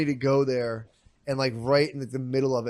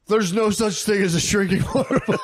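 raised pitch, laughter creeping in; half-laughing mock scolding; mock angry teacher; 5 semitones higher than usual. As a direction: imitate an indignant teacher, barely keeping it together. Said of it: "He got all mad and serious".

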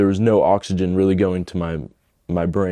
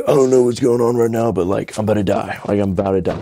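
rushed, urgent plea, acting it out; retold breathless panic; 3 semitones higher, faster than usual. Telling his buddy at the door he's dying, retold panic. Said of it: "I couldn't barely even talk".

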